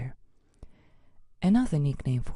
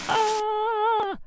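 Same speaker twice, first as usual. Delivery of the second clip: a sudden high yelp as he tumbles; high cry while falling; 4 dB louder than usual. Acted. Kangaroo mascot tumbling over, a high yelp. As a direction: yelp out high like you just slipped.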